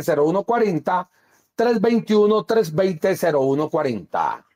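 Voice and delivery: punchy, sing-song announcement of dates; emphatic promo read with swooping phrases; radio announcer. Acted. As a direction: rattle off the tour like a radio pitchman. Announces tour dates and phone number.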